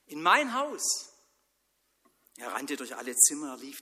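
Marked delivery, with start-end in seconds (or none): 0.1-1.1 high, loud, thrilled cry; excited shout. Acted. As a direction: shout it out in amazement. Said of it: "schrie er". (Mann schreit begeistert, hoch und laut)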